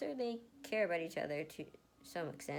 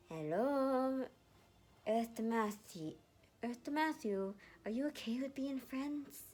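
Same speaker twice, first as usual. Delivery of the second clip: teasing call; 5 semitones higher, slower than usual. Acted. Snapping fingers at dazed boy.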